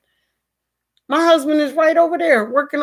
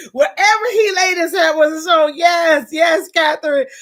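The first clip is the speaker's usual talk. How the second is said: crying shout; 4 semitones higher than usual. Real, not acted. Telling a viewer about her late father, shouting high through tears.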